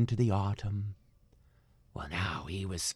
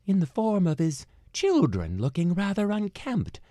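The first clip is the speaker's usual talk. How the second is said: ordinary delivery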